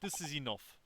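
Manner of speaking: gruff Russian guard; smug Russian seaman; Russian accent. Acted. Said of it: "sorry to literally anybody who actually has a Russian accent".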